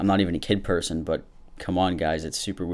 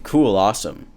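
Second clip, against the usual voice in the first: mocking bored "Cool, awesome" said a bit louder; dismissive cool awesome; 2 semitones higher, 6 dB louder than usual. Imitating a distracted sister's uninterested reply. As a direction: toss it off like you're watching TV. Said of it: "staring at the T V, didn't even look at me".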